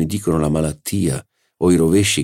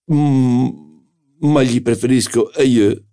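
Sagnet's reply; 7 semitones higher, 4 dB louder than usual. Acted. Sagnet replies at dinner.

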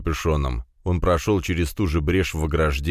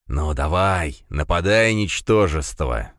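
hissing; slower than usual. Acted. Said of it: "зашипел качок".

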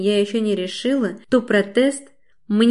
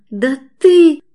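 much higher and louder outraged cry; hysterical shout; 7 semitones higher, 12 dB louder than usual. A narrator's reading. Svetlana Stepanovna screams at the narrator in hysterics. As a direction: scream it, losing control. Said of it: "дрожащим голосом кричит Светлана Степановна".

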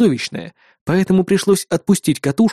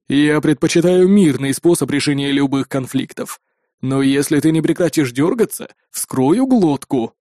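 low, measured villain's threat; menacing raider; 3 semitones lower than usual. Acted. Raider warns his struggling captive, low measured menace.

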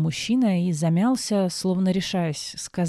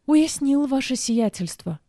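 frightened nod; 7 semitones higher, slower than usual. A narrator's reading. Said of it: "испуганно закивал мальчишка".

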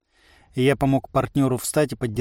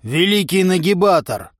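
loud, higher roar of a self-proclaimed giant; bellowing roar; 6 semitones higher, 5 dB louder than usual. A narrator's reading. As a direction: roar out the title proudly. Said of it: "взревел".

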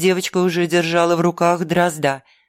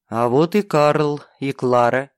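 fire demon; 3 semitones lower than usual. Acted. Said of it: "провозгласил он".

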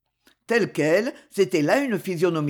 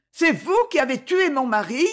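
higher, louder cry of horror; horrified cry; 7 semitones higher, 3 dB louder than usual. Acted. Varvara realizing the count killed her husband, horrified. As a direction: scream the realization at him. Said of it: "Le cri fut jeté avec un accent d'horreur".

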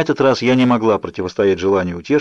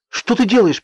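much higher, sharp scolding shout; scolding cry; 12 semitones higher than usual. A narrator's reading. Bella shouts at Jacob for getting up. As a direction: snap at him to stop. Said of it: "прикрикнула я на него".

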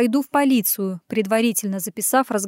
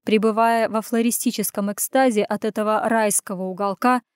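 plain reading voice

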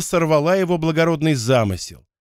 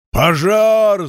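raised, drawn-out shout; higher, long cry of fire alarm; renewed alarm yell; 5 semitones higher, 4 dB louder than usual. A narrator's reading. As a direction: yell the alarm with fresh force. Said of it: "заорал он с новой силой".

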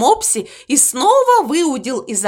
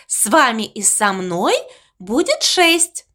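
squeaky voice. Acted. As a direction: squeak it out dreamily. Ovechka voice. (писклявый голосок)

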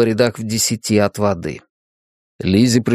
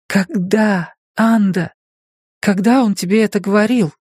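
higher, pressing; urgent questioning; 9 semitones higher than usual. A narrator's reading. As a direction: demand an answer.

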